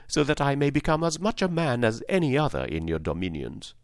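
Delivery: mildly plucky scarecrow; a touch of brave candour. Acted. Scarecrow asks the lady for brains, mildly brave. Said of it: "he answered her bravely".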